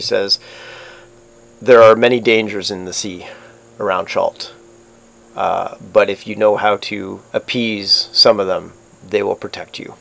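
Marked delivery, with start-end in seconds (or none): 1.6-9.9 lightly voiced, understated sailor's counsel; first mate's measured warning.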